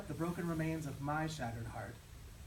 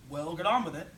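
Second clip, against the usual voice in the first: loud, brusque boss voice; gruff boss; 7 dB louder than usual. Acted. Boss brushing off his nervous worker, brusque and loud. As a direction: bark it out like an impatient boss.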